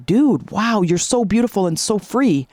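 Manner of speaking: a touch of wide-eyed admiration; mildly wowed, lifting on the first words; awestruck caterpillar. Acted. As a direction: lightly act out an amazed, envious caterpillar. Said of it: "he sees a butterfly come up".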